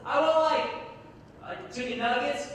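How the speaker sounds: high call out of a car window; mock yell. Customer ordering out the car window, mock yelling. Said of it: "he wants to yell out my window".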